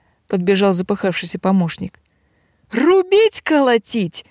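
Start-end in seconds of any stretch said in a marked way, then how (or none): 2.7-4.3 yelling. Acted. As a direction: bark it out at the servant. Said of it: "заорал на него разбойница".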